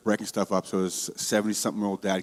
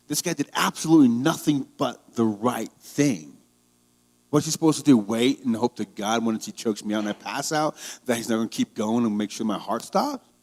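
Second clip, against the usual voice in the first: frustrated anger; 3 semitones higher, 4 dB louder than usual. Real, not acted. Defending the veteran to viewers, heated and angry. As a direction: let the outrage build. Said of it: "really frustrates me".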